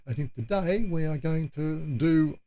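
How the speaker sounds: hiccuping mid-sentence; words broken by hiccups. Real, not acted. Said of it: "I've got hiccups again".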